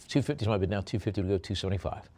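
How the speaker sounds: fast going once, twice, sold; auctioneer calling bids. Acted. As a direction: close the sale briskly.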